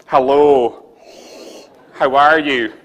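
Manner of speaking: loud, hammed-up hello to a glass; greeting the beer. Shown as a demonstration. Brewer greeting his beer like a gentleman, loud and hammy. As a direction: greet the beer like an old friend, big and loud. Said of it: "as I say hello to this gentleman".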